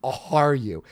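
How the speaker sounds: slow amazed question to the big shot; awestruck. Retold or imitated. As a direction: let it out in slow disbelief. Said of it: "And I'm like".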